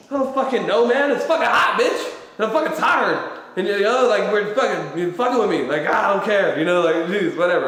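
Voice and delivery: hammed-up irritated grumbling; fed-up complaining. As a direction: replay the whiny soldier griping. Retold fed-up soldier in debrief.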